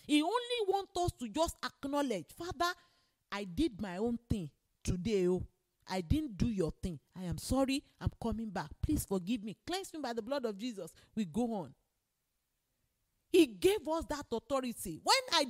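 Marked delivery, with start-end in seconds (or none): 2.4-10.9 lower, gently understated confession; simple penitent prayer. Shown as a demonstration. Preacher shows believers how to acknowledge faults to Father, penitent prayer. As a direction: confess to a father in a low, easy voice.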